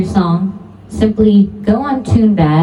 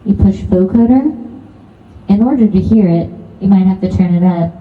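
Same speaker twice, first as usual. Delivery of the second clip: vocoder effect. Shown as a demonstration. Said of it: "You want a vocoder effect".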